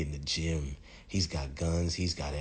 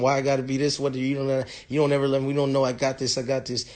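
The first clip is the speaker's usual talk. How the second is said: put-on high, loud protesting girlfriend; mock indignant girlfriend, pitched way up; arguing girlfriend; 8 semitones higher, 7 dB louder, faster than usual. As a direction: argue back loudly over everyone. Voices girlfriend arguing back in panic.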